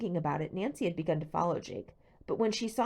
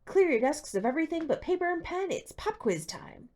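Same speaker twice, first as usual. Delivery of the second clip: gleeful; 11 semitones higher, 4 dB louder than usual. A narrator's reading. Teacher delighting in a pop quiz, high and loud. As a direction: savour every word of bad news. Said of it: "the teacher said gleefully".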